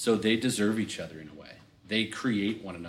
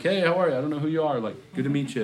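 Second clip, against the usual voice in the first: higher, louder mock politeness; forced polite reply; 7 semitones higher, 5 dB louder, faster than usual. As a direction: fake a polite hello to a stranger. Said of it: "I'm like".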